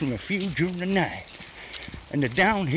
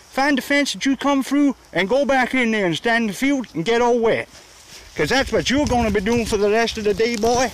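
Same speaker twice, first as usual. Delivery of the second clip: higher, raised scolding at the dogs; 4 semitones higher than usual. Real, not acted. Walker scolding stray dogs to go back, raised voice. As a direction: tell those dogs off firmly.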